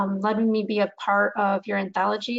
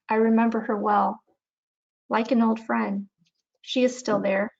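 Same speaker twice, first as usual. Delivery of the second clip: measured recital with pauses between lines; unhurried poetry recitation, little drama; poem reading. Acted. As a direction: read your poem aloud, phrase by phrase. Reads own poem aloud.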